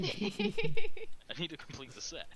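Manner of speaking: loud, drawn-out, hammed-up plea; mock-desperate collector. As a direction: raise it high and stretch it out. Villain's mock plea for rug.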